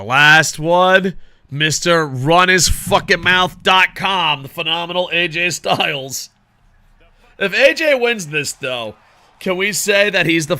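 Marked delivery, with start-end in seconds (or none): 0.0-6.3 slow, loud announcer build-up; mock ring announcer. Gamer announcing AJ's entrance to the boys, hammed-up ring announcer. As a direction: introduce him like a ring announcer, drawn out.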